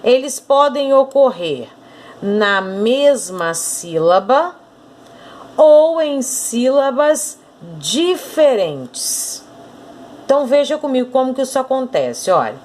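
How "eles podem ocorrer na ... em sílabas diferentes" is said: slow dictation. Shown as a demonstration. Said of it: "eu quero que você marque aqui comigo".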